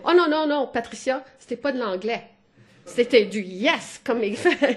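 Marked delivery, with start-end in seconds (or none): 0.0-2.2 1 protesting colleague. Retold or imitated. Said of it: "He said".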